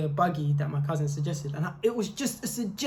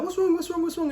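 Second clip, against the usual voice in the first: high, urgent repeated question; anxious high-pitched imitation; imitated worried brother; 11 semitones higher, faster than usual. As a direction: fire it out in mock panic. Brother rushing over, concerned.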